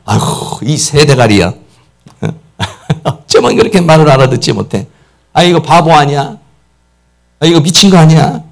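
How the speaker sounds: understated insulting rant; contemptuous scolding. Retold or imitated. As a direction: belittle them half in jest. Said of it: "이렇게 말한다든지".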